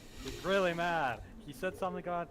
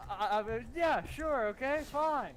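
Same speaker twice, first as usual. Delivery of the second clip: much higher, flustered "yeah, sure, okay, fine"; flustered agreement; 9 semitones higher, 5 dB louder, slower than usual. Real, not acted. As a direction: agree in a nervous rush of pitch. Flustered player accepts the risk.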